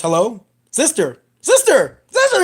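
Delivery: repeated calling. Retold or imitated. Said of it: "says it, like, four or five times".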